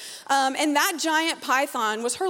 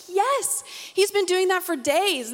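eager owner; 6 semitones higher, slower than usual. Retold or imitated. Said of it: "And she's like".

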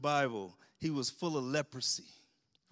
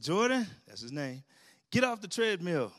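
fatherly call. Retold or imitated. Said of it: "I said".

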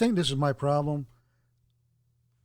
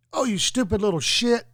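a sneering parent voice pitched up; mock a parent talking down to a child; belittling parent; 6 semitones higher than usual. Man imitating a parent insulting a kid, sneering and pitched up. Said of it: "talking down to them like".

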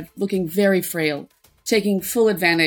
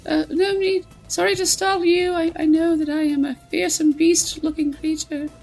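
put-on much higher, meek old lady; frail old woman; 9 semitones higher than usual. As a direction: apologize sweetly, feebly. Old woman character apologizes.

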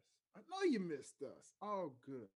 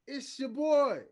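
hype shout; 11 semitones higher, 13 dB louder, slower than usual. Acted. Host hype self-introduction.

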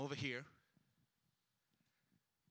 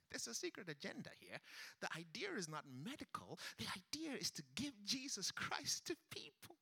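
voice of the Lord; 3 semitones higher than usual. Retold or imitated.

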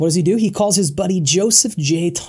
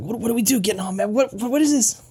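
puffed-up owner; 4 semitones higher, faster than usual. Retold or imitated. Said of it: "all puffed up, like".

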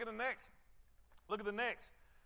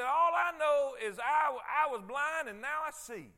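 healed man's cry; 3 semitones higher, 5 dB louder than usual. Retold or imitated. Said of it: "And he said".

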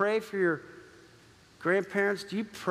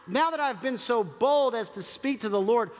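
bold plea; 3 semitones higher than usual. Acted. Abraham pleading boldly with God.

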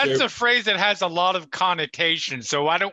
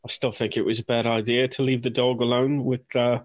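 put-on London accent; 3 semitones lower than usual. Player voices Paul with his London accent.

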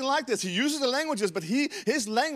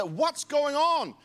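higher, drawn-out puzzled question; stretched-out astonished query, pitched up; bewildered crowd; 7 semitones higher, much slower than usual. Retold or imitated. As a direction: mimic a baffled onlooker, slowly. Crowd of Jerusalem reacting to Pentecost.

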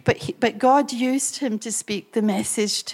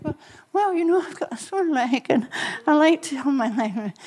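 trying not to sound grumpy; 5 semitones higher than usual. Retold or imitated. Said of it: "I didn't want to be grumpy".

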